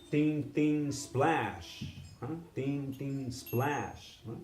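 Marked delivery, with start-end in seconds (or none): 0.1-1.8 ding ding, splash on the third; cymbal sounds. Shown as a demonstration. Teacher voicing the cymbal beat, splash accented. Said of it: "That means for emphasis". 2.5-4.2 ding ding, splash, softer; softer cymbal sounds. Shown as a demonstration. Teacher repeating the cymbal beat more softly. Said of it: "That means for emphasis".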